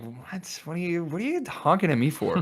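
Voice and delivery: fast, high, baffled what-are-you-doing protest; indignant protest. Retold or imitated. Teen protesting to a honking driver, high and fast. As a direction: throw it back at her, fast and bewildered.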